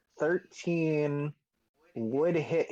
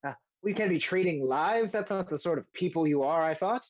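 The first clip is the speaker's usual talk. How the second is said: fussy Rainier voice; 4 semitones higher than usual. Acted. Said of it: "Rainier goes".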